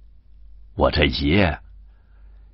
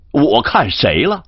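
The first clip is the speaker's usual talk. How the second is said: indignant denial; 9 semitones higher, 4 dB louder than usual. Acted. Yanxi denies, repeats himself.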